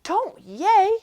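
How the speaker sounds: high, loud protest; yelling. A narrator's reading. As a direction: yell at the crowd to stop cheering. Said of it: "yelled Pip".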